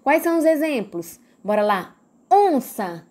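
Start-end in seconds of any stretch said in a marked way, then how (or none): 2.3-3.0 "Onça" with a strong ON, second syllable falling away; stress on first syllable. Shown as a demonstration. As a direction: hit the opening of "Onça". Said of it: "Eu falei on mais forte". ("Onça" com força no ON)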